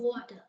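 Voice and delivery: "water" ending without an R, as "watah"; dropped R. Shown as a demonstration. Teacher showing student the New York accent, "water" without R. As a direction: say "water" with the final R thrown away. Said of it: "they drop the sound of R".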